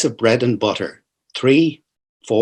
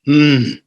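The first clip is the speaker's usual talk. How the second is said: sleepy grunt. Acted. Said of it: "A sleepy, soft grunt answered".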